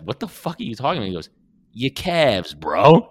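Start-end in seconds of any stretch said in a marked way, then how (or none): 0.0-1.1 baffled tough guy. Retold or imitated. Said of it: "the guy is like". 1.7-3.1 Drama's deadpan delivery. Retold or imitated. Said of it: "I just love the delivery of".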